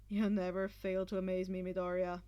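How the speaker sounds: Shinzo, amused. A narrator's reading. Shinzo teasing Midoriya with a low laugh. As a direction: speak it with a grin.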